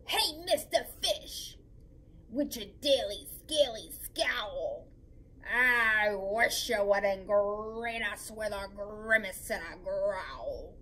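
gently teasing the grumpy fish; drifting jellyfish. Acted. Jellyfish teasing the fish, slow and sinking.

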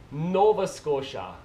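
slow "Nova Scotia", weight on NOVA, falling; Canadian accent, draw out "Nova" and drop "Scotia"; practising Canadian accent. Shown as a demonstration. Vlogger practising "Nova Scotia", slow falling Canadian accent. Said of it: "I'll practice".

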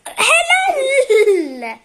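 football commentator. Pretend. Commentator praise of keeper.

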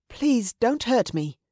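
high, slow pleading; frightened plea. Acted. Girl begging the raider to spare her, frightened. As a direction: beg timidly for mercy.

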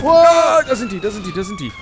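high urgent repeated callout; excited callout. Real, not acted. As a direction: point them out fast and loud. Spots enemies, excited calling out.

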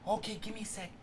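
very soft, fretting to oneself; hushed, anxious self-talk; nervous muttering. Real, not acted. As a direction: mutter under your breath while searching. Nervously hunting for a weapon.

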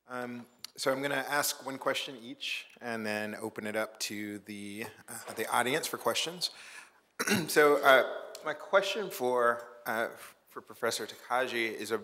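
muffled, as if through a hand. Real, not acted. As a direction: voice blocked and dull, hard to hear. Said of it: "you're coming in really muffled".

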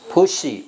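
"Pushy" with a high first syllable, falling away; stress on PUSH. Shown as a demonstration. Teacher modelling "Pushy" for the class, first syllable stressed. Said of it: "重音啊，push再重一点".

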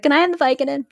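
pleading patient. Retold or imitated. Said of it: "she's like".

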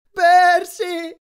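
high, loud cry for help; shout. A narrator's reading. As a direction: yell his name in alarm. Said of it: "gridò Grover".

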